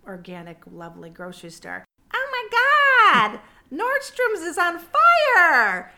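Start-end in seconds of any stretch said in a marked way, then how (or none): 2.1-5.9 high, loud, slow alarmed cry; a stretched, shrieking announcement with a laugh; shocked exclamation. Retold or imitated. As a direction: blurt it out in stunned alarm.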